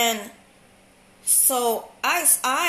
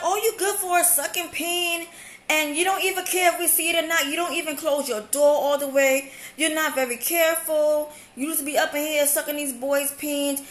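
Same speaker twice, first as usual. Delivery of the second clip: heated retort; 3 semitones higher than usual. Retold or imitated. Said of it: "So I'm like".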